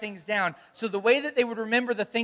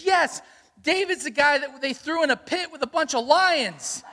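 put-on a higher, eager child's voice with a laugh; eager little daughter; 5 semitones higher than usual. Pastor voicing his daughter's confident wrong answer, higher and eager with a laugh. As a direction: bounce in like a kid who's sure she's right. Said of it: "and she goes".

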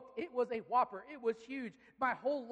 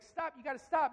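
raised, louder acted plea; insistent shout; 4 semitones higher, 6 dB louder than usual. Friend's dad arriving beside the boy, insistent shouting. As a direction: urge it loudly, up close.

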